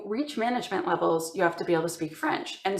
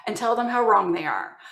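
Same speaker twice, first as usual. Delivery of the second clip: frustrated manager; 4 dB louder than usual. Retold or imitated. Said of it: "my manager was getting so frustrated".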